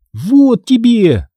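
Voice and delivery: медленно, высоко, со злорадством; растяни с торжеством; злорадный выкрик. Acted. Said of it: "злорадно выкрикнула я". (злорадно кричит Грулю, разрывая его)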